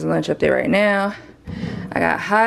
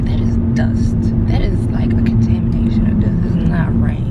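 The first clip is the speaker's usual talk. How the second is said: whispering; 3 dB louder than usual. Real, not acted. Insisting about dust, hushed.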